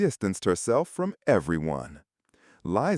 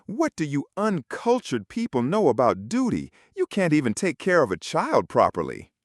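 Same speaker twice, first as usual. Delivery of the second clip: screaming; 7 semitones higher than usual. A narrator's reading. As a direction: shriek it out in contempt. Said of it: "Liza started screaming".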